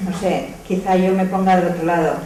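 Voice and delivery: ordinary delivery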